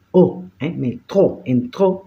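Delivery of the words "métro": "Métro" stressed on tro, rising at the end; stress on last syllable. Shown as a demonstration. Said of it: "se acentúa". ("Métro" con acento final en tro)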